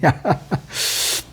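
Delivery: quiet unvoiced chuckle at himself; soft breathy laugh. Real, not acted. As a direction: laugh softly at the slip. Laughs at own slip. (민망한 듯 작게 웃음)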